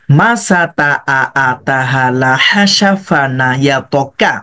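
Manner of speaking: split reading. Shown as a demonstration. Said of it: "সুন্দরভাবে split করেন".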